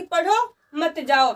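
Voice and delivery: slow "पढ़ो", brief pause, then "मत जाओ"; pause after पढ़ो. Shown as a demonstration. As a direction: separate "पढ़ो" from "मत जाओ", slowly. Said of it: "ये हमारा अर्ध विराम है". ("पढ़ो" के बाद विराम)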